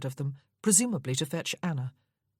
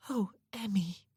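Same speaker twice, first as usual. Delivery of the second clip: pained sigh; 5 semitones higher, 4 dB quieter than usual. Acted. Sister pained at the wound.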